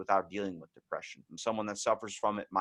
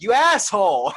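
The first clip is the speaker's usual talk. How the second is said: laughing insult; 10 semitones higher, 11 dB louder than usual. Retold or imitated. Friend admits he peed himself.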